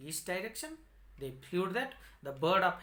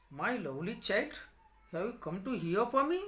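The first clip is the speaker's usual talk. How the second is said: lightly raised, quick gentle bird voice; a touch higher and faster, coaxing the child; bird of happiness; 4 semitones higher, faster than usual. Acted. Magic bird greets the blind boy, lightly raised quick voice. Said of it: "The bird of happiness asked him".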